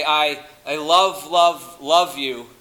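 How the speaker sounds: each "love" leaned on, slow and punched; emphasis by repetition. Shown as a demonstration. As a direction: stress every "love" in turn, drawing out the first. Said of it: "if you wanted to show emphasis".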